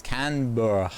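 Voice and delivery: CANBERRA in a loud, rough Australian accent. Shown as a demonstration. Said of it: "I'm just gonna do a rough accent".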